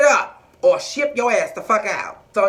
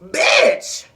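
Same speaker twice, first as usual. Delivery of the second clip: exclamation; 5 dB louder than usual. Acted. Outburst at Autumn.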